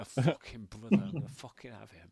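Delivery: loud, rough bellow; drunken noble bellowing at passers-by; rowdy shout. Acted. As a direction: roar it out like a brawler. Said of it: "I was like".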